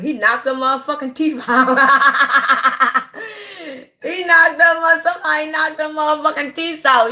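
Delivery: high and loud, breaking into laughter; laugh-shouting the punchline; laughing hard. Real, not acted. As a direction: cackle through the words. Cracking up at own joke.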